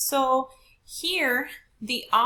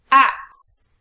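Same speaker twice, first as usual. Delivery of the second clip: AXE punched out loud; stress on AXE; 2 semitones higher, 11 dB louder than usual. Shown as a demonstration. Teacher testing capital-letter syllables for class, stressed. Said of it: "we do need a higher pitch".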